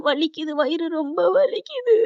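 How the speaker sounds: retold bellyache wail; acted pain. Sick girl tells aunt of pain.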